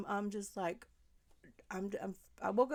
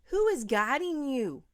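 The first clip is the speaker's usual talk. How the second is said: louder, pleading questions; pleading demand; 3 semitones higher, 5 dB louder than usual. Pretend. Wishing she could confront the mother, pleading and louder. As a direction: shake them awake with the questions. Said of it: "I wish I could shake you and say".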